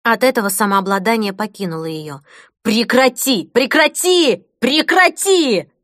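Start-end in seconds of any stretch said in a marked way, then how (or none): 2.6-5.7 building from firm to high loud shriek; shrieking like a madwoman. Acted. Mother losing her temper, shrieking at her son, building. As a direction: lose control more with each word. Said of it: "Она визжала, как полоумная".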